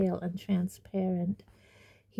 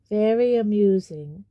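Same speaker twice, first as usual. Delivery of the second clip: dark; 6 dB louder than usual. Acted. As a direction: show you are not amused. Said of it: "said Nearly Headless Nick darkly".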